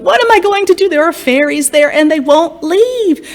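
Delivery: put-on worried old woman. A narrator's reading. Old woman pleads with the wise woman, high and anxious. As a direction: plead for help. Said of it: "she said to the wise woman".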